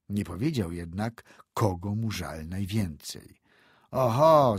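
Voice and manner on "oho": loud higher mocking "Oho"; calling out. A narrator's reading. Andrzej calls out at Antek's excuse, loud scoff. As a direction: call it out with a scoffing lift. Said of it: "zawołał Andrzej".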